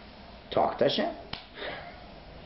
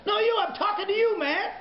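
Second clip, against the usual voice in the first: booming announcer call. Retold or imitated. Stadium announcer singling one man out of sixty thousand, shouting. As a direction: call him out over the loudspeaker. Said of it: "the guy doing the public announcing".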